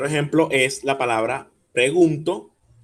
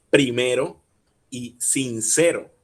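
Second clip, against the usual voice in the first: "primero" y "sincero", lentos, fuerza en "me" y "ce"; sílaba fuerte marcada; 3 dB louder, slower than usual. Shown as a demonstration. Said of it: "en primero sería me". ("primero y sincero" recalcando la penúltima sílaba)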